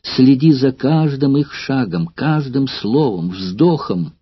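halting, breaking voice; words catching, urgent; broken voice. Acted. Courtesan sending old actor to Kumy, voice breaking. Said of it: "сказала прерывающимся голосом".

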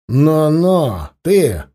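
stern warning growl. Acted. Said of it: "предостерегающе рыкнул он".

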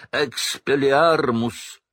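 high, drawn-out shouted spell. A narrator's reading. Harry casting at Snape, shouted spell. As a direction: fling the spell out loud. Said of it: "крикнул он".

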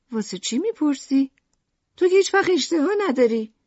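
high, loud, irritable retort; cross. A narrator's reading. Mother answering son's question about dinner, cross. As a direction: throw the question back sharply. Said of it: "لوکریس با اخم".

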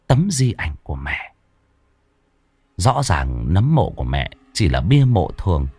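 usual speaking voice

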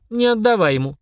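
put-on high little boy squeak. A narrator's reading. Boy warning his sister, high squeak. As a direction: pipe up urgently in a child voice. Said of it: "пискнул Денис".

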